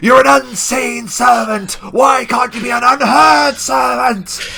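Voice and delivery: very loud, very high, shrill furious bellow. The narrator voices Bracken raging at Stibbons from downstairs: Bracken's angry bellowing.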